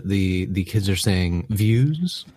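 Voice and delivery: lightly voiced old man, slow and doddering; a hint of a frail old professor. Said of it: "I'm a very old man".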